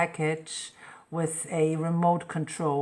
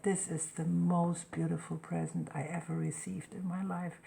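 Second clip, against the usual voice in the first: put-on soft awed child; 6 dB quieter than usual. The boy moved by his present.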